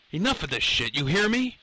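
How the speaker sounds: shaky-nerved demand, pitch jumping up at the end; trembling defiance. A narrator's reading. Lenny holds the professor at gunpoint, trembling high demand. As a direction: bluff toughness through fear, voice rising. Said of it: "His voice trembled".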